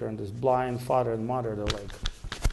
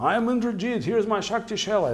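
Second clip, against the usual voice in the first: child playing villain; 9 semitones higher, 4 dB louder than usual. Child playing Indrajit in game.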